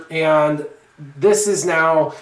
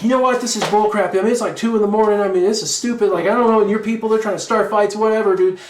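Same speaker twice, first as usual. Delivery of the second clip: raised, exasperated telling-off; lecturing; 6 semitones higher, faster than usual. Retold or imitated. To the noisy neighbour at two in the morning, a mock-heated lecture. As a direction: scold him like he's wasting your night. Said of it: "lecturing him".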